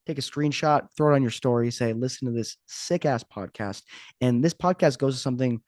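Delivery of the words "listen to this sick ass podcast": mock hype. Mock shout-out quote.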